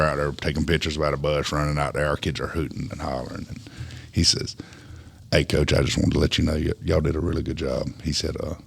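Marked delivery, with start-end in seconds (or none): 5.3-8.5 strangled voice, holding back tears; choked up. Real, not acted. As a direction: voice tight with emotion. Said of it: "Sound like you're getting choked up about it".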